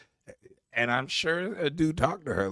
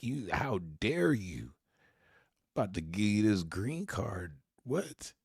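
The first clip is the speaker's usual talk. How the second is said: mock offended; 3 dB quieter than usual. Host voicing the offended woman's thoughts, mock indignation. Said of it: "she looked genuinely offended".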